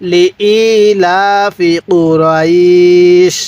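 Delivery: very slow, long held vowels; model Quran recitation. Shown as a demonstration. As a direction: stretch the last vowel before "sh". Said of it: "পড়ুন".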